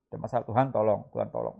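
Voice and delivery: gumaman doa yang sangat lirih; doa dalam hati. Shown as a demonstration. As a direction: ucapkan nyaris tak terdengar, seperti dalam hati. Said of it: "dalam hati bisa". (doa diam-diam saat ada masalah)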